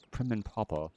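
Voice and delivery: prim and proper British accent. Shown as a demonstration. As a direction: attempt a British accent, dropping the R. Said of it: "Whenever you try to do an accent".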